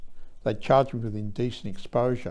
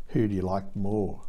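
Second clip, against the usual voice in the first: oily voice; 2 semitones lower than usual. Retold or imitated. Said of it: "The sergeant said in an oily voice".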